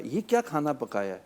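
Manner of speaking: acted husband griping about the food; a mild mock scolding over dinner; needless anger. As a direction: pick a petty quarrel at the table. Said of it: "لیکن اگر خام خواہ غصہ رہے".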